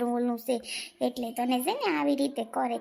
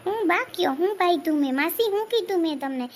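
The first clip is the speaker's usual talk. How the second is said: loud, higher, outraged denial; indignant protest; 4 semitones higher, 4 dB louder than usual. Acted. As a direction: throw the accusation back, raising the voice. Accused woman protests in quarrel.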